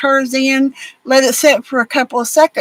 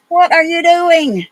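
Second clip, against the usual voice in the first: raised, slow sing-song to the dog; pet talk; 6 semitones higher than usual. Real, not acted. Owner asking her dog what it's up to, high pet talk. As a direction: coo at the puppy.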